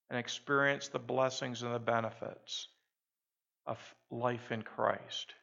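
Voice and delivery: a gentle closing prayer. Acted.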